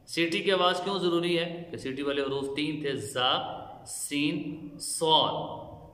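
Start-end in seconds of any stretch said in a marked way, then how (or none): 4.7-5.9 सॉद with a sharp hissing s; whistled sad. Shown as a demonstration. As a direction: hiss the s of सॉद. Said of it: "इसमें सीटी निकालेंगे।". (सीटी वाला सॉद)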